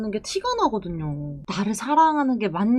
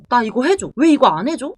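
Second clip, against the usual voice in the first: mock demanding; 6 dB louder than usual. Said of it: "이렇게 하시는 거는".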